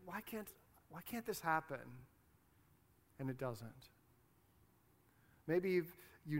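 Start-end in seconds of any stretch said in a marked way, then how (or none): 0.0-1.8 hushed, halting plea; soft appeal to God, imitating someone praying; pleading prayer. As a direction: falter softly through the question. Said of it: "you've been praying and asking God".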